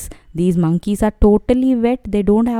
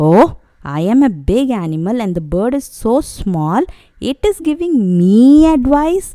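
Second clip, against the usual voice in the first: angry monkey; 3 semitones higher, faster than usual. Acted. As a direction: huff like an insulted big ape, then burst out. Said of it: "the monkeys got angry".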